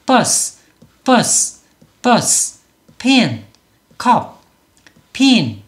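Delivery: "버스, 버스, 버스, 펜, 컵, 핀" as single high falling beats; each of "버스, 버스, 버스, 펜, 컵, 핀" one English syllable, pauses between. Shown as a demonstration. Teacher drilling students, "버스, 버스, 버스, 펜, 컵, 핀" in one syllable each. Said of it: "이렇게 모두 다 이름절로 소리를".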